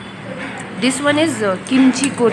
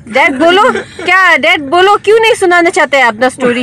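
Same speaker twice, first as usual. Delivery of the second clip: eager coaxing; 5 semitones higher than usual. Real, not acted. Coaxing dad to speak.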